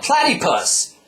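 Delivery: high loud card call; loud high battle cry; yelled summon. Acted. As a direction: shout the summon name. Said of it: "and yelled".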